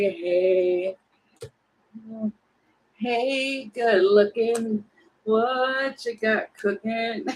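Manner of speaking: slow flirty pickup line; lightly voiced slick flirt, drawn out; slick charmer. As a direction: play it like a smooth-talking pickup line. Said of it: "somebody's trying to come in all slick".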